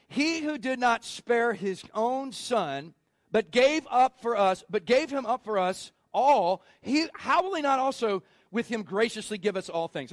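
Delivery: tripping over the verse, repeating words; a botched read of the verse to the congregation; stumbling first read. Real, not acted. Preacher fumbling the Romans verse while reading aloud. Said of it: "'cause I just butchered it".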